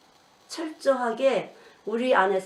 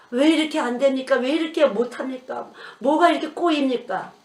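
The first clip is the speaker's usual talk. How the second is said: complaining; 3 semitones higher, 5 dB louder than usual. Retold or imitated. Mimics believers complaining to God.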